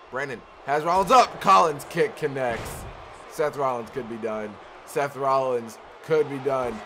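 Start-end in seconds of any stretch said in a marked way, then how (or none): 4.8-6.8 drawn-out hyped call; slower, building excitement. Real, not acted. Commentator sensing the finish, slower, hyped. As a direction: let the call swell as the finish nears.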